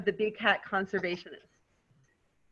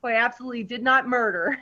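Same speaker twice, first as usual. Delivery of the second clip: laughing. Acted. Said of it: "Black Widow".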